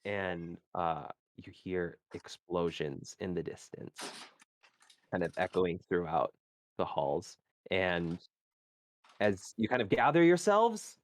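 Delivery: scene-setting storyteller voice; game master narration. Acted. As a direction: set the scene for the players. GM continues scene description.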